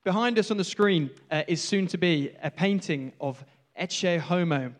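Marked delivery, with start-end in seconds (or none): 3.8-4.7 slowed, clumsy attempt at a Spanish accent; awful Spanish accent. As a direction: try the foreign title with a bad Spanish accent. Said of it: "Apologies for my awful Spanish accent".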